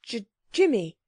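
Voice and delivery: hesitant stammer on the first sound of Jimmy. A narrator's reading. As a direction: stumble lightly over the name, then finish it. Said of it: "said Anthea hesitatingly".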